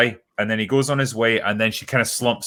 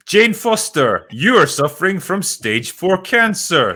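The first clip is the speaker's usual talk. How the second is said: dramatic Darcy; 7 semitones higher, 4 dB louder than usual. Acted. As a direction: deliver it like overwrought soap drama. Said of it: "have Darcy come in and say".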